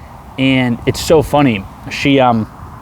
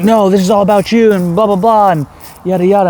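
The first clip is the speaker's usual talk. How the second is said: high, louder mocking mimic of her; a much higher, louder whiny imitation of the girl; 9 semitones higher, 3 dB louder than usual. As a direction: parody her ranting back at him. Mimicking girl's angry rant.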